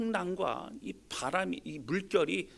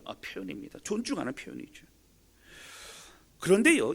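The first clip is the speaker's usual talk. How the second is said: usual speaking voice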